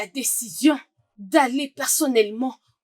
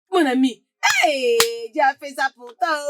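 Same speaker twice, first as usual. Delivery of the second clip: excited cry. Acted. Excited congratulations.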